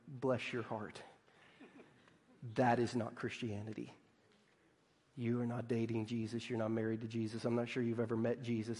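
low, very soft and grave; pitying correction. Acted. Somebody correcting a believer who never met Jesus, softly pitying. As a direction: break hard news gently, voice hushed.

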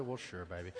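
very soft, low and gentle; a father gently letting his son stay; tender yes. Retold or imitated. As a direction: melt and say yes.

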